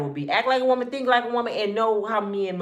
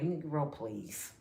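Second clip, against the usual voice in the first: scornful aside; 6 semitones lower, 11 dB quieter, slower than usual. Retold or imitated. Her silent scornful reaction.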